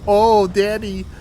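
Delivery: laughing slow mock swoon. Real, not acted.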